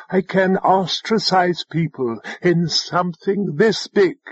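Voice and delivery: pointedly leaning on "this big". A narrator's reading. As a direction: stress on "this big". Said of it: "she said pointedly".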